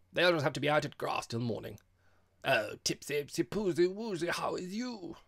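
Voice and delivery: put-on loud, high, gushing girl's voice; boisterous young visitor. A narrator's reading. Girl greets Tipsy and quizzes her host, boisterously. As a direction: coo noisily and playfully.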